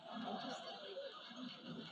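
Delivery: breathy, slow, knowing whisper; hushed joking aside. Real, not acted. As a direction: let them in on a secret. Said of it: "knowing aside".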